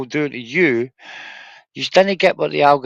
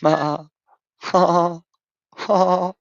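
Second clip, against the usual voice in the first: mock laugh; 6 semitones higher, slower than usual. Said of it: "I will say things like".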